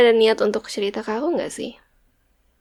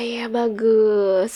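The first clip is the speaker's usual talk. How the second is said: whisper; much slower than usual. Acted. Whispered praise, slow.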